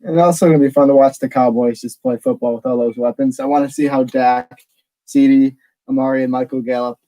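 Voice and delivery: breathless from running down stairs; winded, short of breath between phrases. Real, not acted. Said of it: "Sorry, I'm out of breath".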